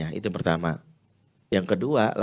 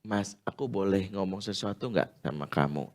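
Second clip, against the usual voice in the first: gentle asking; 6 dB quieter than usual. Shown as a demonstration.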